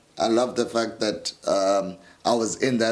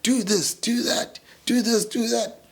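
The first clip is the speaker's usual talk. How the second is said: imitating SpongeBob; 9 semitones higher than usual. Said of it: "SpongeBob was just like".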